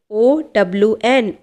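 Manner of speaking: each letter said slowly and apart; slow spelling out. Shown as a demonstration. Teacher spelling a word for students, slow and spaced. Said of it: "teacher spells word letter by letter".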